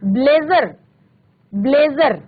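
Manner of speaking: ब्लेजर with ज as a buzzing z; vibrating z sound. Shown as a demonstration. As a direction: say ब्लेजर as "blazer" with a clear z. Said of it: "ज में आपको एक vibrate".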